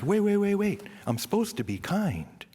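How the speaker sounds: high, urgent self-interruption; sudden self-check. Retold or imitated. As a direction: catch yourself mid-act, pitch jumping up. Acts catching himself being mean.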